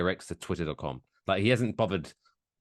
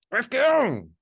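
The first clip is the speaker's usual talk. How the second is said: hype call; 7 dB louder than usual. Acted. Announcer starts the fight.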